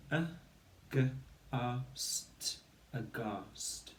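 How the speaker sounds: slow letter-by-letter blending; sounding out letters. Shown as a demonstration. Teacher to pupils, slowly sounding out the letters. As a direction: spell it out sound by sound. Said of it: "we build that word into the section".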